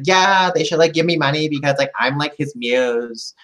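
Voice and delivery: put-on bubbly Valley Girl voice; light ditzy Valley Girl accent. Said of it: "I'm really good with my, uh, uh, Valley Girl accent".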